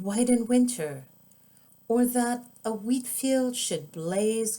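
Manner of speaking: put-on gentle, lilting read-aloud for kids; storybook narration; children's story narration. A narrator's reading. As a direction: read it like bedtime story time. Author reads picture book aloud.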